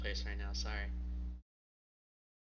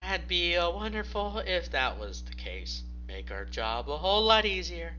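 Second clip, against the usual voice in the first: Michael higher, wry and amused; Michael savoring a dry joke, voice pitched up; 7 semitones higher, 5 dB louder than usual. Acted. Michael chuckling reply.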